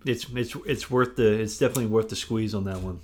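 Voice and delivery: talking between bites of chips; chewing chips while talking; munching chips. Real, not acted. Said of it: "we're munching on some chips".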